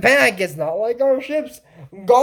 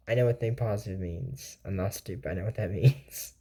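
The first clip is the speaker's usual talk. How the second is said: mock defensive; 14 semitones lower, 12 dB quieter than usual. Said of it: "imitating Isabel's defensive reply".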